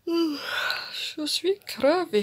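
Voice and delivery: very slow words stretched by a yawn; real yawning. Real, not acted. Exhausted vlogger admitting she's worn out, yawning. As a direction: talk right through a high yawn. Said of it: "j'arrête pas de bâiller".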